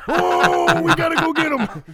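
very high, loud wail; hammed-up shrieking call to the chase; mock urgent shout. Acts a cop joining the chase.

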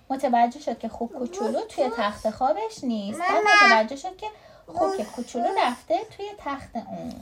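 lively read-aloud with swooping intonation; story reading to a child. A narrator's reading.

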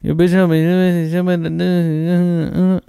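slow high mumble rap; impression of a rap group. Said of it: "That's what the Migos sound like to me".

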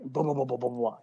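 mouth-made pounding noise; quick run of mimicked thuds; imitated banging. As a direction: patter out an imitation of table banging. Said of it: "He's, like, banging the table".

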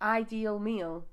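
IDEAL MEAL said slowly, drawn out; testing the rhyme. Shown as a demonstration. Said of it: "Yeah, it does, doesn't it?".

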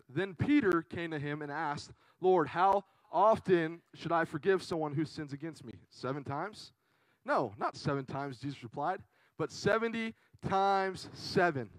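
slow, measured Bible reading; scripture reading. Real, not acted. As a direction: read the verse out deliberately. Reads scripture aloud.

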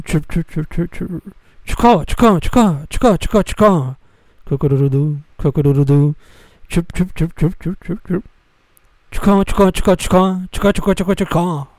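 high, quick chirping bird noises; high bird chirps. Pretend. Imitating bird calls.

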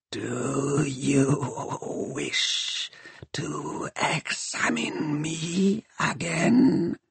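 slow, creaking machine whisper; dark whisper behind you. Acted. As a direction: breathe it like rusty cogs. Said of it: "sharp as the squeal of rusty cogs".

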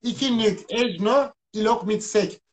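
reversed phrase, said slowly; backwards speech. Shown as a demonstration. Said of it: "ikinin tersi ikidir".

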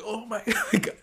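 high, laughing oh my God; half-laughing panic at the ringing phone; shocked oh my God. Retold or imitated. Recalling the interrupted video, laughing shocked.

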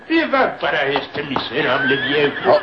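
high, frantic begging for his life; old servant begging the strangers not to kill him, terrified; terrified pleading. Acted. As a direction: plead like a hunted animal. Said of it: "corría temeroso entre las ruinas".

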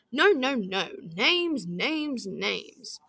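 loud booming no no no, fading on the last names. A narrator's reading. Big Red booming at Missus Grey, loud then fading. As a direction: boom it like a big chief correcting. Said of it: "boomed Big Red".

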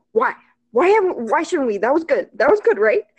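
insecure, insistent questioning; anxious pleading. Retold or imitated. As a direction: plead for reassurance in a mock panic. Acts out anxious reaction after kiss.

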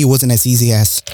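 words slurred around a sip of iced drink; while sipping a drink. Real, not acted. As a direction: talk just after taking a sip. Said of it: "sorry, I'm drinking something".

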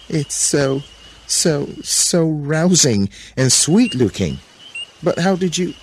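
high, drawn-out admiration; aroused Eve. A narrator's reading. Eve admiring the fruit before Serpent, high-pitched aroused wonder. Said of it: "looking very aroused".

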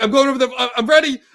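high, loud drunken bravado re-enacted; hollering a mock challenge at people leaving; rowdy taunt. Taunting the group as they walk away from the bar, rowdy shout.

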